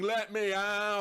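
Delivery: slow, drawn-out haunted decoration voice; slow creepy scream. Retold or imitated. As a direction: stretch it out like a spooky prop.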